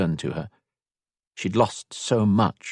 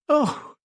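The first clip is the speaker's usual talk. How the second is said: high-pitched amused gasp; laughing gasp. A narrator's reading. Elisand reacts to being teased, laughing gasp. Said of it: "Elisand gasped on a laugh".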